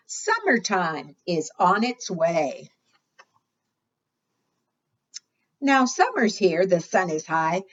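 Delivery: sing-song picture book reading; reading to children. Acted. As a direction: read the rhyme out to the little ones. Reads rhyming picture book aloud.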